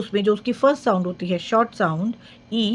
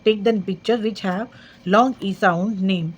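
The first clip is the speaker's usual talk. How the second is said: very slow reading; much slower than usual. Shown as a demonstration. Teacher reading a workbook instruction slowly. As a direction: read the instruction word by word, very slowly. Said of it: "book में बहुत अच्छी सी exercise".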